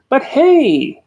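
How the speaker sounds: calling out. A narrator's reading. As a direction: hail him from afar. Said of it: "called the elephant".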